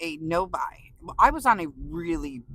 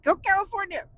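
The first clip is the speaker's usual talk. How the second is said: mock cheer; 12 semitones higher, 3 dB louder than usual. Cheering for home state.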